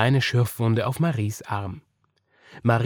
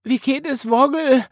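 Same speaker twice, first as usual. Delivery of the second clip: put-on high, raised child voice with concern; mildly fretful, pitched up; worried; 13 semitones higher, 6 dB louder than usual. A narrator's reading. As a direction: ask anxiously, as a little girl. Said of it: "sagte Marie besorgt".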